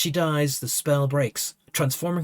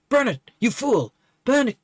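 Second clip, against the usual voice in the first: higher, louder outburst; first try at Liaya; 7 semitones higher, 3 dB louder than usual. Acted. Liaya's first voice over Burnett's body, high outburst. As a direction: fling it out high. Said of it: "no, wait, hold on".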